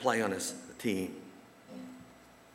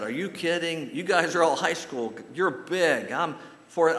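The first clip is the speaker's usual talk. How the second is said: put-on higher, louder startled kid voice; disbelieving kid; 6 semitones higher, 5 dB louder than usual. Young boy protests to the big kids, higher and louder. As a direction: protest like a nervous fourth grader.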